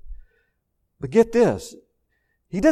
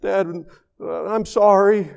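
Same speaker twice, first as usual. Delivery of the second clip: higher-pitched pleading, lightly acted; imitated tearful child; 4 semitones higher than usual. Daughter says sorry to her dad, mildly imitated tearful pleading. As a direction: plead like a sorry little girl, mildly voiced. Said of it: "and she's crying. She goes".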